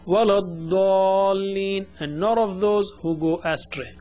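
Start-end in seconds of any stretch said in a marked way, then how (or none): 0.0-1.9 slow, stretched chant of the word; Quran recitation. Shown as a demonstration. Teacher chanting the verse word slowly for the class. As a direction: draw it out as in recitation.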